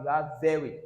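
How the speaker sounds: very with a clear V. Shown as a demonstration. Teacher modelling "very" with a V. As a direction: voice the V in "very", lips on teeth. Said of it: "under the V sound".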